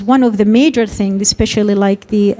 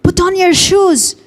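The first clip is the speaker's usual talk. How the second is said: slow, higher, clear instruction; slow, higher request to the child to put on shoes; direct instruction; 7 semitones higher, slower than usual. Shown as a demonstration. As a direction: lead with the task, said slowly. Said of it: "the information that you want to add at the beginning".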